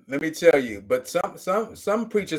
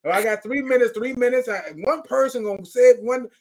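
auctioneer countdown, pitched higher; 4 semitones higher than usual. Retold or imitated. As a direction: rattle off the minutes like a preacher auctioneer. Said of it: "they like an auctioneer now".

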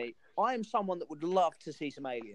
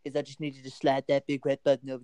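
coaxing a world leader, louder on the key ask; a hint of a pleading statesman; mock diplomatic plea; 4 dB louder, faster than usual. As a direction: talk Putin down like a hostage negotiator. Pleading with Putin on the phone.

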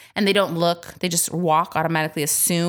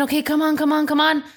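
hurrying yell; 6 semitones higher than usual. Retold or imitated.

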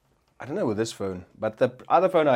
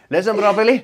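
louder and higher, laughing; laughing mock yell; 7 semitones higher, 7 dB louder than usual. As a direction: yell it at the phone through laughter. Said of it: "I start arguing with my fucking phone".

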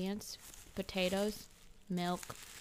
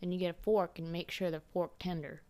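exaggerated Texan accent. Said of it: "I'm obviously exaggerating his accent just a wee bit".

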